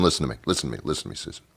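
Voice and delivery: from soft down to a whisper; fading to whisper. Retold or imitated. Customer hushing waitress Susan, fading to whisper. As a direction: let it die away to a whisper.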